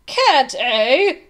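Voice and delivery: loud, indignant royal challenge; terrible rage. A narrator's reading. King defied by his page boy, raging. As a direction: throw it back loudly, enraged. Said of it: "His Majesty flew into a terrible rage".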